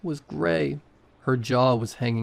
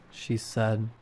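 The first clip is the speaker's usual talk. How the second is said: usual speaking voice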